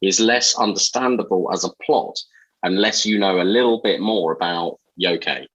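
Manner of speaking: measured, read-aloud impression of a friend; Shafi. Host reading a prepared piece as his friend, light impression. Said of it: "it's my best Shafi voice".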